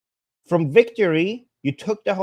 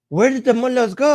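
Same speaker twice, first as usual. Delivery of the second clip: higher, eager grandma voice; excited grandma; 8 semitones higher, 4 dB louder than usual. Retold or imitated. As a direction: ask it like a thrilled old grandma. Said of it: "She's like".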